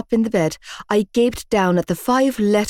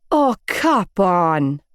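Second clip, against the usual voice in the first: growl; much slower than usual. A narrator's reading. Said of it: "I growled".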